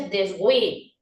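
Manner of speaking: deshue as des-GÜE; sounded H. Shown as a demonstration. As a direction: say deshue with a G-like onset to UE. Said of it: "o dice deshue?".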